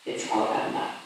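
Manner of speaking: whispered closing line. Real, not acted. Sermon's closing line, unvoiced.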